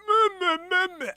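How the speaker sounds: high, nasal-free mock meh; mock bored drone. Host mocking how slow reading sounds to him. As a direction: bleat it like someone bored by slow talk. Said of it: "and I'm like".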